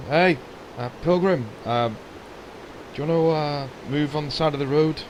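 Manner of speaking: put-on a masked stranger with a heavy Valenrethian accent. Assassin telling the pilgrim to move aside, heavy Valenrethian accent. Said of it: "says in a heavily Valenrethian accent".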